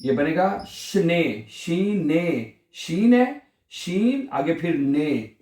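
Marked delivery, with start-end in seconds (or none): 0.7-2.5 शने said slowly with a long final "ay"; drawn-out syllables. Shown as a demonstration. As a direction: stretch the ending of शने. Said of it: "ए को थोड़ा सा लंबा करना है".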